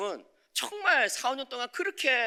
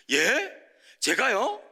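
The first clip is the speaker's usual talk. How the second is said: high, louder indignant protest; 6 semitones higher, 4 dB louder, slower than usual. Retold or imitated. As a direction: argue back, offended. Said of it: "막 따졌어요".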